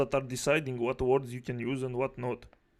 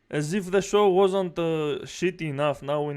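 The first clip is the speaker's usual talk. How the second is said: exasperated rant; 3 semitones higher, 6 dB louder than usual. Real, not acted. Ranting about the show.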